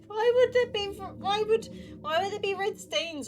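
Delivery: laughing disbelief. Real, not acted. Laughing at absurd game text.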